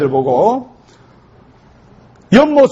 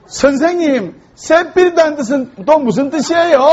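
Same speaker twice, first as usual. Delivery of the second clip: put-on higher childlike call; child calling; 6 semitones higher than usual. First graders calling their teacher, higher childish voice. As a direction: pipe up like a small kid.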